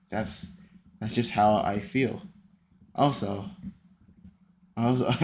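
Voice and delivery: soft low calm reading; imitating his calm voice. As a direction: read it low and unbothered, like him. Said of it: "I'm gonna read it in, in your voice".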